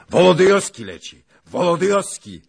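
high, urgent battlefield shout; excited yelled alert. A narrator's reading. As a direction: call a friend to look, loudly. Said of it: "i krzyknął na Zaglobę".

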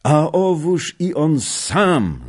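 high, loud, slow delighted cry; joyful exclamation. Acted. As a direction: call out in glad surprise at a friend. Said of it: "zawołał Kmicic".

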